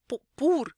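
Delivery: "pour" with released breath on p; French p with air; aspirated pour. Shown as a demonstration. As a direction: demonstration. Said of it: "nem consigo falar em francês esse pour de outro jeito".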